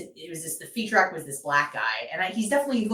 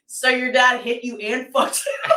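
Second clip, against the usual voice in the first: a loud, higher mock yell; mock shout; 7 semitones higher, 3 dB louder than usual. Retelling Big J's crowd-work punchline, loud mock shout. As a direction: bark the punchline out.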